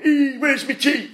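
high, drawn-out mock granddad call; sitcom granddad. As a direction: call out slowly as a hammed-up Liverpool granddad. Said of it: "They had a granddad up the road going".

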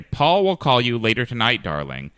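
Texas accent. Shown as a demonstration. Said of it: "move into a Texas accent".

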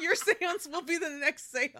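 like a recorded customer service line; phone menu voice. Pretend. Mock hold message.

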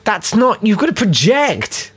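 mock scolding. Scolding actors about volume.

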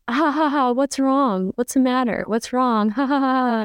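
imitated mocking laugh, high-pitched; taunting laughter. Man laughing at her tears, taunting. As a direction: jeer through a put-on ha-ha laugh. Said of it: "he starts laughing and he's like".

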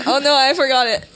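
acted-out "oh no" with a laugh close behind; sketch character. Comedian acting out a sketch for co-host, mock dismay. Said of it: "so you go into a room and then".

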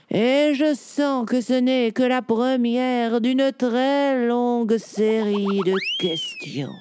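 voix de chat lente et posée; réponds en vieux chat sage; chat savant posé. Acted. Cat answers children slowly. (chat érudit, ton lent et assuré)

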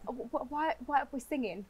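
put-on soft, sing-song Brummie accent; quietly mocked Birmingham accent; mimicked Birmingham accent. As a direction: tease the lilt of a Brum accent. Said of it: "Birmingham accent".

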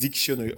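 dictionary said as the English word; dictionary in English with weight at the front; English pronunciation demo. Shown as a demonstration. Guest translates for host, English dictionary with French accent. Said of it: "It means in English".

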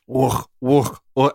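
guttural barked woofs; mock growling woofs; throaty woof noises. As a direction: clear the throat like a bark. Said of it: "Where he's like".

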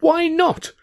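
high, loud desperate cry; frantic yell. A narrator's reading. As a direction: demand it in a panic. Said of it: "I yelled frantic".

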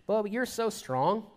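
slow, mildly mocking sarcasm; a light sneering taunt; sarcastic mocking. Paul taunting the arrogant church, slow mocking sarcasm. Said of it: "he's kind of mocking them a little bit, if you listen to the tone".

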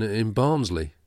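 Barnsley said the local way, short flat a, almost Barnsley; clipped Yorkshire Barnsley. Shown as a demonstration. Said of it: "we're not two men from the south".

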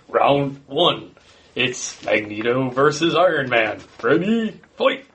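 lightly voiced arcade announcer, slow "round one"; a hint of a fighting game announcer calling the round. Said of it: "the actual video gamey style".

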